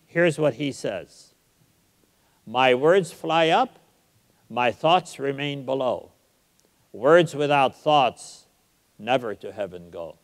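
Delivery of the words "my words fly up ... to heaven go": recited verse. Shown as a demonstration. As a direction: savor each line of Shakespeare. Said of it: "write two lines like that".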